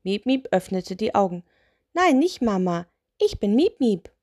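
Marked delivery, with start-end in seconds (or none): 1.9-4.1 lightly voiced little witch, higher. Witch corrects the spirit, lightly voiced higher. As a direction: correct him in a small witch voice.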